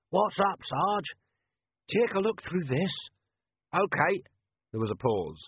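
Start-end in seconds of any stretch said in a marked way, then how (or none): 0.1-4.2 tinny voices. A narrator's reading. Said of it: "another tinny voice said".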